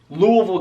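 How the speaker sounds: "Louisville" slurred to LOO-uh-vul; local pronunciation. Shown as a demonstration. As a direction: run "Louisville" together with a swallowed ending. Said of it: "say it again the right way".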